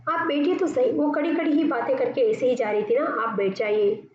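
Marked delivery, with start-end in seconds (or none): 0.1-0.9 higher pleading request; urging to stay. Acted. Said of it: "इस तरह से बेला अपनी सासू माँ को कहती है". 3.0-4.1 slow, gentle please sit; slow polite request. Shown as a demonstration. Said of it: "इस तरह से बेला अपनी सासू माँ को कहती है".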